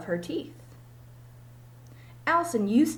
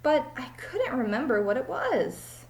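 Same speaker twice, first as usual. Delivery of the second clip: silly teacher; slower than usual. Acted. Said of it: "said Missus Jewell's".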